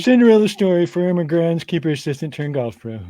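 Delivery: a quick Carl impression, doing the accent this time.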